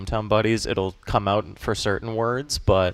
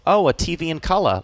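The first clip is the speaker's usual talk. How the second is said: Australian accent; 6 semitones higher than usual. Shown as a demonstration. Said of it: "the Australian accent isn't too different".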